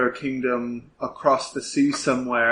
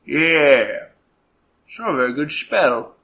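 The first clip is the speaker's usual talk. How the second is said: musing inspector; 3 dB louder than usual. Acted. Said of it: "Inspector goes".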